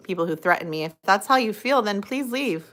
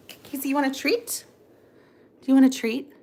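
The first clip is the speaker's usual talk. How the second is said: put-on baby talk to dog; 5 semitones higher than usual. Offering dog a treat.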